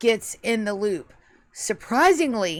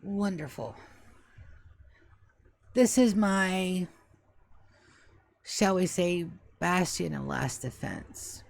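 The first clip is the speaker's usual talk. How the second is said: put-on stately old butler; 3 semitones lower than usual. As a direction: think it through word by word like an aged English butler. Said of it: "how I want you guys to think of the voice".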